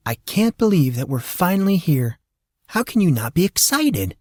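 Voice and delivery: lightly voiced excited aunt; excited Molly. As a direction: gush about finally arriving.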